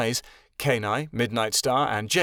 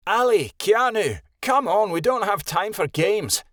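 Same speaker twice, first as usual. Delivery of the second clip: louder call from the closet; yelling; 9 semitones higher, 5 dB louder than usual. Acted. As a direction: yell across the room, impatient. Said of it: "Shadowin yelled from the closet".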